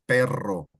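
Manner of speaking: perro with a long rolled double R. Shown as a demonstration. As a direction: roll the rr in perro. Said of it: "You see there's two R's".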